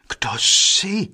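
asking in one voice. A narrator's reading. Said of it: "ptali se jedním hlasem".

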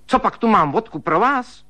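high, loud stern rebuke; stern scolding. A narrator's reading. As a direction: tear into him sternly. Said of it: "spustila přísně švagrová". (švagrová přísně a hlasitě hubuje)

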